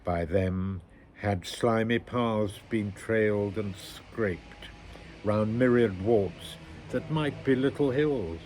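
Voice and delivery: measured, solemn poem recital; poetry reading. Acted. Reader sharing a bleak war poem with listeners, measured recital. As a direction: recite it phrase by phrase, with pauses. Reads a Wilfred Owen poem.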